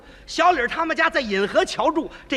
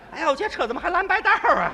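a hint of a higher scolding woman; complaining woman; 6 semitones higher, faster than usual. Sister-in-law scolding about the car, lightly higher. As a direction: whine it like a fussy sister-in-law.

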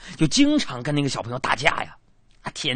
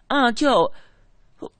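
put-on high innocent little girl, a bit louder; child voice; 9 semitones higher, 5 dB louder than usual. Niece explaining to uncle she forgot to fight, innocent. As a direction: play the niece who simply forgot.

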